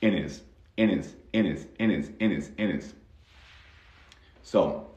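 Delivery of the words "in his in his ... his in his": "in his" blended as "in is"; his reduced to "is". Shown as a demonstration. Teacher to student, linking in his without the H. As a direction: drop the H and link "in his" smoothly. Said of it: "se va a convertir en".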